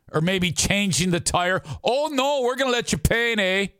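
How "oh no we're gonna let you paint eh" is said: mock boss voice. Mocking the boss's reaction.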